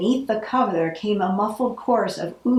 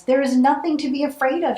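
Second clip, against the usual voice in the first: fast, higher call after friends; urgent cry; 6 semitones higher, faster than usual. Acted. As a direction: hurry to call them back. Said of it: "she cried".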